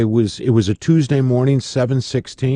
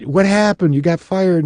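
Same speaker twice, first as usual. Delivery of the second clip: surprised clerk; 9 semitones higher than usual. Retold or imitated. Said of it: "she goes".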